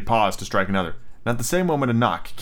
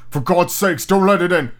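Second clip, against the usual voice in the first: high, frightened plea, growing louder; trembling cry; 8 semitones higher, 5 dB louder than usual. A narrator's reading. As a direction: beg desperately in terror. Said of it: "cried the old man, trembling".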